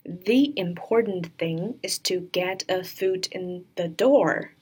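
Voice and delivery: slow, careful model reading; slow sentence demo. Shown as a demonstration. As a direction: read it out slowly for learners. Teacher models sentence for learners. (慢速示范朗读)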